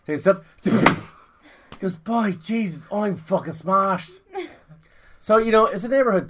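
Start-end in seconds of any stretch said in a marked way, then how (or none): 2.0-4.1 lightly voiced drunk Irishman; a touch of drunken self-pity. Drunk man talking to himself, lightly played.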